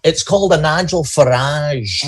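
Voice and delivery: off-target mock London accent; wrong London accent. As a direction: attempt a London accent and miss a little. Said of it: "you got the wrong accent".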